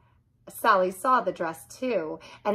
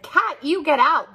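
mildly mad order; 7 semitones higher, 4 dB louder than usual. A narrator's reading. Narrator angry at cat.

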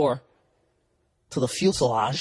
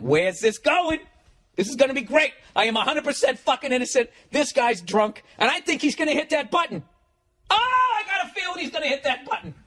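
high, giddy inner voice with a laugh; thrilled to watch the trouble unfold; gleeful excitement; 11 semitones higher than usual. Retold or imitated. Inner thoughts as the drunk threatens the call button, giddy and high. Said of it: "now my heart's racing".

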